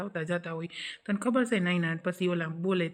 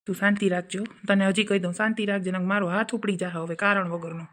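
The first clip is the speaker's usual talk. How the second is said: angry threat. Acted. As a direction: warn her hard, raised voice. Husband threatens wife. (ગુસ્સામાં ધમકી)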